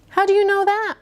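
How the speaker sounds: high, loud sceptical challenge; Professor Plum challenging. A narrator's reading. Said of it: "Professor Plum said".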